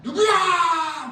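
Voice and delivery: high, slow, furious shout; angry mother shouting at her sons; tiger mom yell. Acted. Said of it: "타이거 맘이 됩니다".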